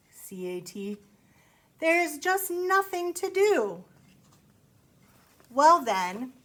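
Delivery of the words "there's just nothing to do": slow, higher whiny bored cat voice. Acted. Cat complains in the story.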